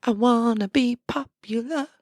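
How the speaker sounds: high, airy mock teen girl; mocking valley girl. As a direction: squeal it like a spoiled popular girl. Mocking a popular high schooler.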